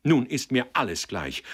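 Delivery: high, loud, reckless outburst; wild cry. A narrator's reading. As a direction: cry out, beyond caring. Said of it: "rief sie wild".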